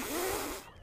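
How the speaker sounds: sputtering puff of air through puffed cheeks; puffed-cheek blow. Shown as a demonstration. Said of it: "You don't blow on a mirror and go".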